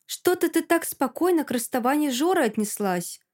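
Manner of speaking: sly needling, pitch a bit up; mildly venomous insinuation; hissing suspicion. Acted. Alka needling Masha about the breakup, mildly hissing. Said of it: "шипит на меня".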